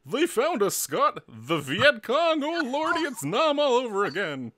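loud, high-pitched hammed-up panic; mock-terrified wailing alarm; panicked flashback. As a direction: cry out like a veteran reliving battle. Acted war flashback panic at fireworks.

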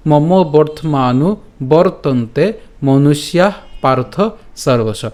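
slow, deliberate phrase-by-phrase recitation; shloka recitation. Shown as a demonstration. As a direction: recite the line slowly, pausing between words. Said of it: "আমি আবার এই লাইনটি বলছি". (ধীরে থেমে থেমে শ্লোক আবৃত্তি)

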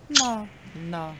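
high, soft, drawn-out no; Consuela. Acted. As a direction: refuse softly and high, like a stubborn maid. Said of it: "there's just a cheeseburger going".

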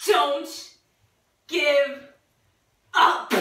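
firmer, word-by-word urging with long pauses; emphatic. Pretend. Player trying to make Jane laugh, emphatic and halting. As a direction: push out each word separately. Repeats it more forcefully.

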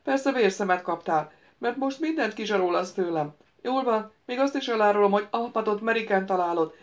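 a capricious wizard lecturing the prince; lightly voiced ghost wizard. The ghost wizard lectures the prince: lightly voiced, eager.

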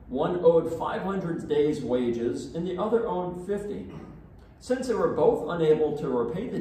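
solemn, measured liturgical reading; Gospel reading. Acted. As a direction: proclaim the Gospel to the congregation. Priest reads the Gospel aloud.

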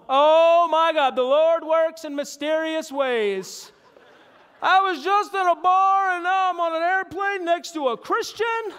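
put-on high, slow, slurred drunken wonder; drunk amazement. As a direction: marvel like a tipsy stranger. Drunk man marvels.

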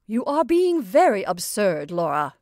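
loud, stern rebuke; icy, emphatic scolding; cold. A narrator's reading. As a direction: reprimand a daughter, out of patience. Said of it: "she said coldly".

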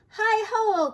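high, loud holler; calling out. A narrator's reading. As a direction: hail them from afar. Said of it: "called Grandma Nan".

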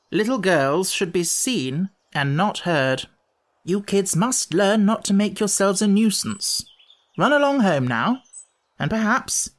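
high, pompous elder-brother lecture; condescending grown-up Lamb. Acted. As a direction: talk down to small children, then dismiss them.

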